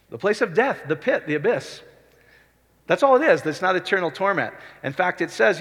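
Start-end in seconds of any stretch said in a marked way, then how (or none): 2.9-3.4 higher and louder, exultant; excited. Real, not acted. Preacher to congregation, excited and loud. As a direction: proclaim it with joy.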